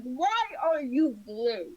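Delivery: whiny half-crying shout; mock crying wail. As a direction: wail at the bird in fake despair. Wailing at the chocobo.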